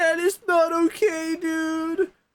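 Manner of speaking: very high, drawn-out, stretched cartoon voice. Imagining how another player would react, in a Shaggy voice. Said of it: "Shaggy, where he's like".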